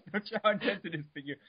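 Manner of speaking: hammed-up, overwrought recital; dramatic reading. Friend keeps up the dramatic Wikipedia reading, hammed-up. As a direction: read it like a grand saga. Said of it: "this is a bit of a dramatic reading".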